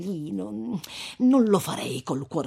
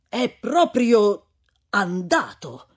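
exclaimed; 3 semitones higher, 7 dB louder, slower than usual. Acted. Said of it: "esclamò Don Abbondio".

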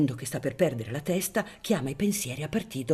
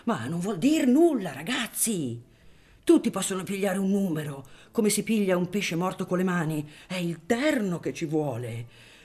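anxious father; 4 semitones higher than usual. Acted. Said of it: "Così dice Filippino".

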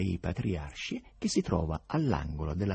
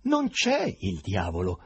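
a slow, mild exclaim; 4 dB louder, slower than usual. Acted. Ivan exclaiming at the confusing professor, mild slow exclaim. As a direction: blurt it out, confused. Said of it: "esclamò Ivan Nikolaevich".

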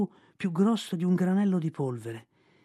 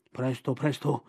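panting; 4 dB louder than usual. Acted. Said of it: "ansimò Balù".

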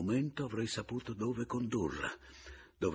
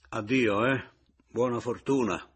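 loud farewell; 5 semitones higher, 9 dB louder than usual. A narrator's reading. Emotional farewell to Romilda.

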